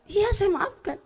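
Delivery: high, lightly voiced mother forgiving; mother's voice. Mother forgiving her child, lightly high. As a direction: pitch up into a mild mother.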